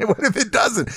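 high-pitched mock fretting; mock worry. Mimicking the worry that it won't grow back, high mock fretting. Mock-worried echo of the objection.

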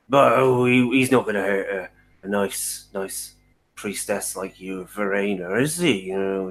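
lightly voiced old coachman spooking the priestess; a hint of a wary local telling tales; superstitious coachman. Coachman warns the priestess about Krampus, ominous.

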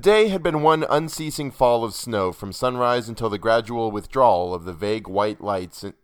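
measured, emphatic storybook reading; narrator's projected reading voice; story narration. A narrator's reading. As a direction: read aloud with weighty, literary emphasis.

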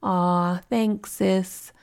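gently imitated brother's thanks; mildly tender, easygoing brotherly thanks; soft, gentle brother. Brother thanking his sister for a birthday song, lightly voiced as gentle. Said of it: "in his soft, gentle voice".

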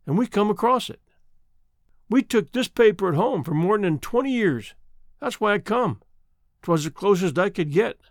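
lightly voiced country woman, longing; an old woman confiding her homesickness; a hint of a sad old country woman; homesick old woman. Old woman telling her story.

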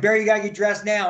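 hurried and urgent; urgent rush. Retold or imitated. Rushing tag partner to dress, urgent. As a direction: push him to hurry up. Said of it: "I'm like".

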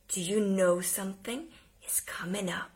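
breathy unvoiced whisper; hushed secret whisper to a child. Shown as a demonstration. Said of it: "you start to whisper".

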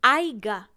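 aiga, said with a clear i glide; aiga, firm and slightly loud; aiga for haya. Shown as a demonstration. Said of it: "pronunciación incorrecta".

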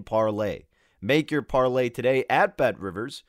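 ad read. Acted. Sponsor ad read.

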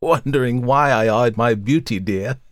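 high, teasing hag voice; sly old woman taunting the lawyer; mocking old crone. A narrator's reading. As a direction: leer at him with a wheeze. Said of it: "laughed again, the same curious, toneless chuckle".

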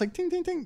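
high, small "ting" noises; ping it lightly like a tapped wine glass; imitated glass tinking. Man getting guests' attention, imitated glass chime. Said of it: "tink your little wine glass".

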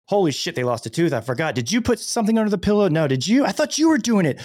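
frantic, rising panic over the tooth fairy; panicked parent. Retold or imitated.

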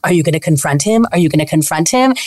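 low, insistent producer voice; pestering producer. Acted. Producer prodding contestant to confront partner, low and insistent. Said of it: "the producer would be like".

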